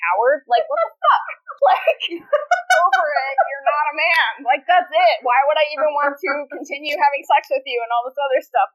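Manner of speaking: animated mock-outraged rant at a boyfriend; high-pitched disbelief, easing into dismissal; indignant telling-off. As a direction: act out dumping him in exasperation. Acting out confronting a cowardly boyfriend.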